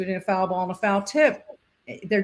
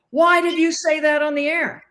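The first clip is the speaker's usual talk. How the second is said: higher, louder angry yell; yelling boss; 7 semitones higher, 5 dB louder than usual. Retold or imitated. Boss yelling at her over the on-air call, angry shout. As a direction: bark the question like a furious boss. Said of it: "he's yelling at me".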